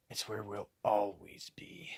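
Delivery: hushed mock Batman whisper. Reviewer quoting Batman's line, hushed whisper. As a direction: breathe it out like a brooding hero.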